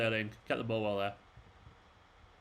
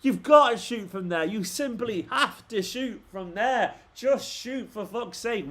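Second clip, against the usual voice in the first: shouting at the telly, higher and slower, exasperated; angry yelling; 5 semitones higher, slower than usual. Real, not acted. Fan yelling at his team on TV, exasperated angry shout. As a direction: bark at the players through the screen.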